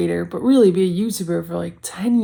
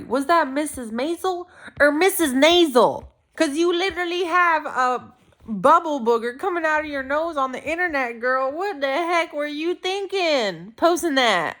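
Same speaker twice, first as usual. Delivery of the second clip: mocking tease; 7 semitones higher than usual. Teasing herself about crying video.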